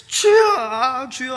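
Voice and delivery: loud, slow, high wail of "주여"; anguished cry to God. Retold or imitated. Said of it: "하면서".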